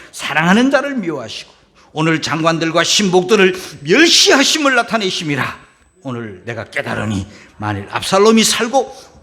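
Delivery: 회중과 함께 크게 외쳐 읽기; 힘주어 또박또박 크게 읽어. Real, not acted. 회중과 함께 큰 소리로 성경 봉독. (회중과 함께 크게 읽는 성경 봉독)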